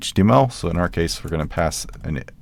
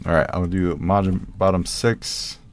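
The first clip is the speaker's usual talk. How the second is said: thick New Jersey accent, r's dropped. Shown as a demonstration. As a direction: say it like a Jersey guy. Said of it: "Like my Jersey accent there".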